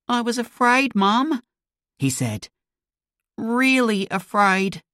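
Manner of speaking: put-on high, small scared boy voice; frightened boy. Son tells his mum he was scared, high and small. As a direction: speak up high like a shaken child.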